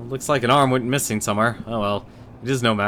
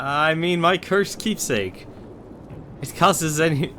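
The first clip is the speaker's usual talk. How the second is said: dark lord; 7 semitones higher, slower than usual. Acted. Skeleton correcting himself.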